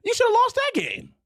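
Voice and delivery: ranting at the team that nearly lost; scornful shout. Real, not acted. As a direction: shout the verdict down at them. Heated rant at Texas fans.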